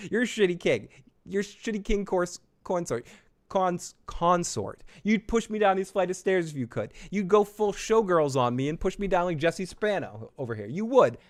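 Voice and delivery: lightly voiced angry queen berating him; half-hammed-up royal rant; mock tirade. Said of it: "She says".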